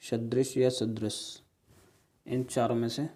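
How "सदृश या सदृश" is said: compare the two सदृश slowly, one by one; careful, slow side-by-side reading; slow demo. Shown as a demonstration. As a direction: lay सदृश या सदृश out slowly for students. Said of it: "बोलने में एक जैसे लग रहे हैं".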